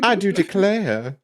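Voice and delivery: slow, mock Southern belle. Host tossing in a belle line. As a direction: drawl it like an old-film belle. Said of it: "old-time Southern belle phrase".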